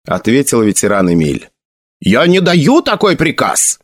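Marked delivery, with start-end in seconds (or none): 2.0-3.8 outburst. A narrator's reading. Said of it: "вдруг выкрикнул новый командир".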